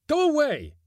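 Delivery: very high, frantic yell; anguished high scream; desperate cry. A narrator's reading. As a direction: cry out to drive the voices off. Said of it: "he cried".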